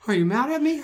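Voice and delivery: high, loud puppy-dog question; mock sad pleading. Man mimicking apologetic friend, mock sad pleading. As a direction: imitate him begging not to be resented. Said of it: "you get all sad".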